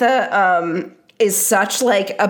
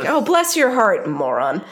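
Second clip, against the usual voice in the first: backhanded sympathy. Shown as a demonstration. Showing co-hosts the hidden insult in Southern sympathy, backhanded. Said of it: "sort of backhanded".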